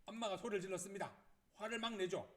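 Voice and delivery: ordinary talk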